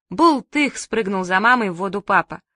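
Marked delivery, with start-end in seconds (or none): 0.1-0.8 high spoken "splash"; imitated splash. A narrator's reading. Father jumping in after mother, high playful splash word. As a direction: voice the plunge as one bouncy word.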